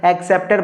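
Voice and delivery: एक्सेप्टर with the opening E pushed; stress on the first E. Shown as a demonstration. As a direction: lean on the first E of एक्सेप्टर, EK-septer. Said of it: "पहला ए आ रहा है".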